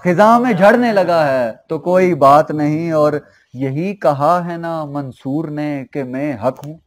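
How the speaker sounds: measured mushaira verse recital; ghazal recitation. Acted. Poet presenting couplets to a mushaira audience, measured recitation. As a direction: recite the couplet with drawn line-ends.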